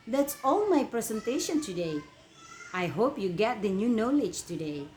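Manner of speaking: lifted, emphatic model sentence for learners; repeat-after-me model reading. Shown as a demonstration. Teacher gives students a closing line to repeat, model reading. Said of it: "Please repeat after me".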